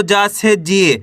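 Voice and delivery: long falling ee in जी; drawn-out syllable. Shown as a demonstration. Teacher adding the long vowel to जा, जी drawn out. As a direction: stretch जी at the end. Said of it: "बड़ी का उच्चारण जोड़ना है".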